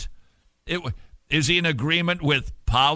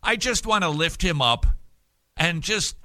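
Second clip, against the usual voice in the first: preachy prayer voice. Retold or imitated. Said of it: "Have you ever heard that prayer?".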